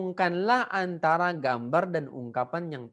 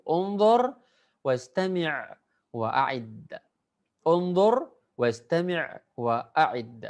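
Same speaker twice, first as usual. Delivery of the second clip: model phrase reading; slower than usual. Shown as a demonstration. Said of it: "antum semuanya mengulang ya".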